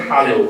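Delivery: "hello" with a firm h, falling; the wrong way, with the h; not hello. Shown as a demonstration. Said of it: "that is not".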